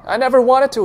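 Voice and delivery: desperate, high and loud; flounder, pleading. A narrator's reading. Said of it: "he says, floundering".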